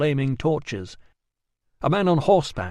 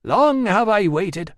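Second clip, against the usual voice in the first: slow, grand and loud; a solemn goddess calling out; commanding goddess voice; 6 semitones higher, 5 dB louder, slower than usual. Acted. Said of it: "said the Shining Woman".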